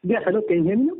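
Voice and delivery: faint, far-off phone voice; calling from a bad line; distant phone line. Real, not acted. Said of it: "It's sounding a little distant".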